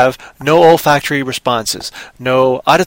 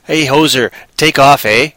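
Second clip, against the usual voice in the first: lightly put-on Canadian; a hint of hoser Canadian; mock Canadian accent. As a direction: imitate a stereotyped Canadian. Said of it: "We don't actually say".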